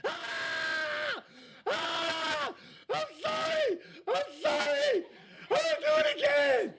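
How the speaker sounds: very high, thin, soft panicked squeal; dad imitating his daughter's panicked pleading; imitated screaming daughter. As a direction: mimic a terrified teenager begging.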